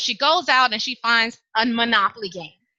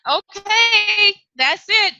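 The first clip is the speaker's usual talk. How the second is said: higher and louder, putting her foot down; firm mom; 8 semitones higher, 4 dB louder, much slower than usual. Acted. Mother forbids the girl any more running, firmly. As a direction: end the discussion hard.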